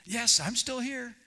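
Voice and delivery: high, drawn-out call back; slow shout up to a rescuer; acted stranded man answering; Jack.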